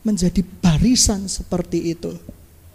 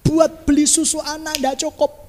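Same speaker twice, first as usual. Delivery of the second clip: blaming complaint; 6 semitones higher than usual. Retold or imitated. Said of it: "dia mulai nyalakan Tuhan".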